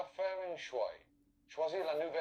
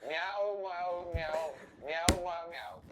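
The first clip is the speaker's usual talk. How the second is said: a touch higher, repeated meows; kitten voice; 3 semitones higher, 4 dB louder, much slower than usual. Pretend. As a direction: meow like a little cat on request. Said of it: "Réponds comme une petite chatte". (miaulement de petit chat)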